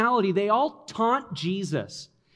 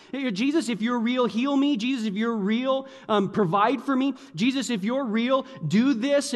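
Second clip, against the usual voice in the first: taunting prayer; 4 semitones higher than usual. Acted. Voicing a demanding taunting prayer.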